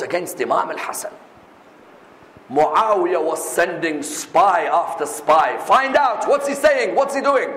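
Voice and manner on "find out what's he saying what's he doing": hammed-up tyrant giving orders; commanding ruler. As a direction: order the spies about urgently. Muawiyah ordering his spies.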